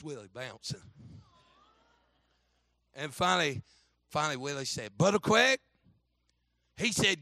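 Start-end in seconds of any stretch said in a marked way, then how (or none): 5.0-5.6 higher imitation of a kid getting attention; lightly voiced boy piping up; boy calling out. Willie pipes up to the bus driver, higher-voiced.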